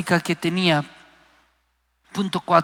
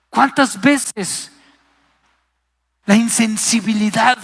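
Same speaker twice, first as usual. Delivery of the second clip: slow; 4 semitones higher, 5 dB louder, slower than usual. Shown as a demonstration.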